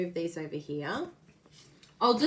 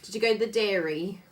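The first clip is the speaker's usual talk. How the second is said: put-on New Zealand accent; 3 semitones higher, 5 dB louder, faster than usual. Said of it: "we'll do all our New Zealand".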